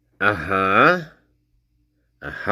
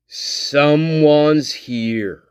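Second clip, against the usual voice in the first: frantic, whispered talk; much slower than usual. Retold or imitated.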